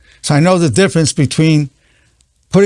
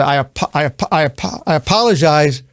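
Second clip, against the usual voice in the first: struggling heartfelt apology. Shown as a demonstration. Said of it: "if you take it further".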